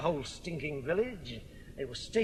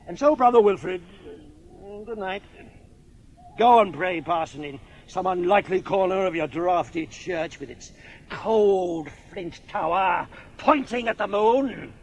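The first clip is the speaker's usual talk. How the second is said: loud taunting; 5 dB louder than usual. Acted. Drunk brother taunts the parson.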